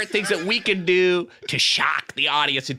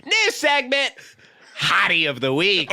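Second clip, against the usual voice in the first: radio announcer; 2 semitones higher than usual. Pretend. Launching a shock jock segment.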